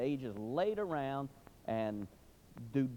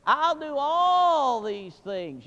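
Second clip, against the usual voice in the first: high, loud, slow wailing prayer; children's desperate prayer; 11 semitones higher, 11 dB louder, much slower than usual. Retold or imitated. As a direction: plead with God like a crying child. Children praying for the dog.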